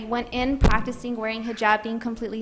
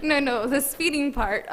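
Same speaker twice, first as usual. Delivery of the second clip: laughing; 3 semitones higher, 3 dB louder than usual. Real, not acted. Clarifies through laughter.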